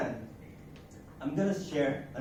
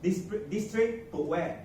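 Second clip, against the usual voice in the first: Singlish; 5 semitones higher, 4 dB louder than usual. Shown as a demonstration. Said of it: "so I rephrased myself".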